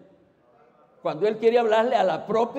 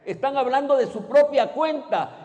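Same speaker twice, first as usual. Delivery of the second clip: fiery preaching; 5 semitones higher, 5 dB louder than usual. Real, not acted. Denuncia falsos profetas con fuerza.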